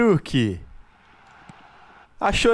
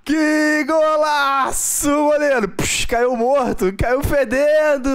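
explosive goal commentary; 3 semitones higher, slower than usual. Pretend. Mock narrating own goal.

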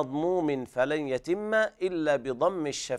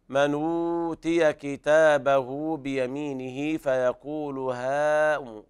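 drawn-out Quranic recitation; slow recitation; much slower than usual. Shown as a demonstration. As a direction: recite slowly, stretching each madd. Reciting the verse slowly. (تلاوة مرتلة بطيئة)

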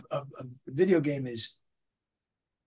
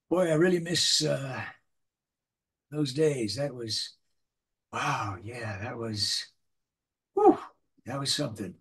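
wistful dramatic moment. Shown as a demonstration. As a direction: let the memory breathe. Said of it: "the character says".

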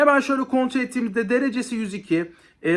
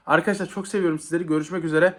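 breathless, hurried sign-off; catching his breath between words; 5 semitones lower, faster than usual. Real, not acted. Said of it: "Vallahi nefes nefese kaldım".

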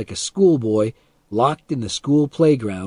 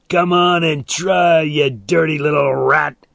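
loud, slow, raised challenge; angry dare; 5 semitones higher, 5 dB louder than usual. A narrator's reading. Man dares boy climbing the fence, angry challenge. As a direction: goad him to try it, loudly.

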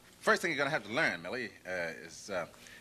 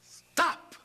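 high, commanding police shout; masterful, forceful yell; 14 semitones higher than usual. Shown as a demonstration. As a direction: shout it with full authority. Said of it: "masterfulness and force there".

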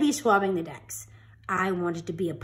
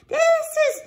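put-on high hesitant child voice; a kid unsure of himself; unsure boy; 5 semitones higher than usual. Boy answers pirate.

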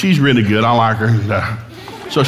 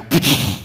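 imitated match igniting. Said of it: "I struck a match".

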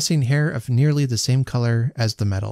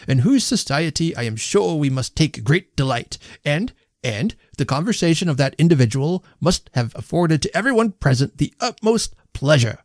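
pompous toast; 4 semitones higher than usual. A narrator's reading. Host's pompous toast speech.

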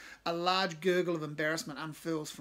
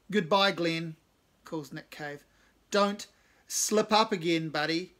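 mocking farewell; 7 dB louder, slower than usual.

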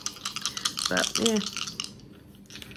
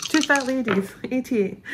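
playful bingo call, higher and brighter; bingo caller; 4 semitones higher, 3 dB louder than usual. Pretend. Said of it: "I feel like a bingo caller".

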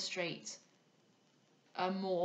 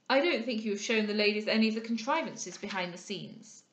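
louder, projected remark; calling out; 2 semitones higher, 7 dB louder than usual. A narrator's reading. Monckton applying to Maurice on the staircase, calling out. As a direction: call it across to a companion. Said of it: "he called out".

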